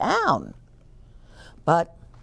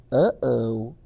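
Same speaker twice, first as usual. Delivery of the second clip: uh-oh; 5 semitones lower than usual. Acted. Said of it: "said the bear".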